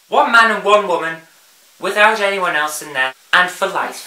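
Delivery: whiny mock voice. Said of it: "in that whiny voice".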